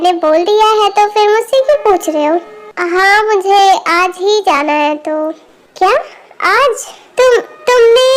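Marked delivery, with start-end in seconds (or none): 5.8-8.1 higher, startled stammer; taken aback. Acted. Mother hears son leaves today, startled. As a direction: react in shocked disbelief.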